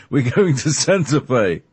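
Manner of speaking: hammed-up American accent. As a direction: ham up the American hippie accent, "Santa Fe" stretched. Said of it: "with a great accent like this".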